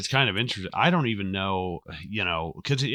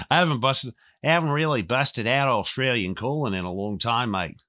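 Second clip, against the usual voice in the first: Australian Colin; 3 semitones higher than usual. Shown as a demonstration. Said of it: "we need more Australian Colin".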